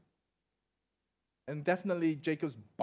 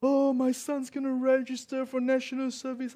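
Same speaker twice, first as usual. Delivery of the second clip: higher mock-wailing worried parent; imitating a crying parent; 8 semitones higher, 4 dB louder than usual. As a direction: play a fussing parent, half-hearted sob. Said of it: "I hear parents crying like".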